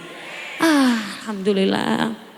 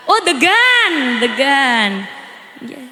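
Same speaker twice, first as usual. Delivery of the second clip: laughing; 4 semitones lower, much slower than usual. Real, not acted.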